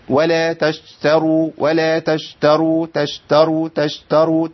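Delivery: تشتروا with the sh pulled toward a j sound; sh drifting toward j. Shown as a demonstration. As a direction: let the sh of تشتروا slide toward j. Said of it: "كأني بقرب على الجيم".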